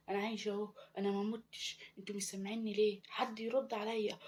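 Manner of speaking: mock scream without full volume, pitch climbing; desperate crying out. Ghost bride calls to her family, half-voiced desperate cries. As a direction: plead to be heard, stretching the last words. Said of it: "وفضلت أصرخ ونادي".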